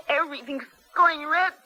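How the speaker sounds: near tears as her sight goes; tearful. Acted. Blinded prisoner tells her captor in tearful distress. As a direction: let a sob creep in.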